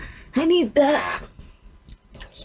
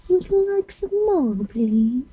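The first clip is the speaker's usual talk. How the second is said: mock British accent, much higher and lilting; playful British offer of more; awful British accent; 4 semitones higher, slower than usual. Girl doing makeup keeps up her bad British accent. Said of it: "Or my awful accent".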